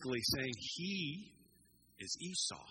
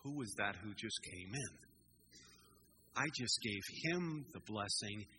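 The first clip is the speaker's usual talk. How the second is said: understated shock, pitched low; lightly acted disbelief, low and held back; stunned father; 4 semitones lower than usual. Dad realizing he blessed the wrong son, understated shock. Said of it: "his dad's in shock".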